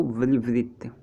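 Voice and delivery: very slow, stretched विवृत; drawn-out term. Shown as a demonstration. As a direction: stretch out विवृत slowly so it is clear. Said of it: "मुंह सबसे अधिक खुलता हो".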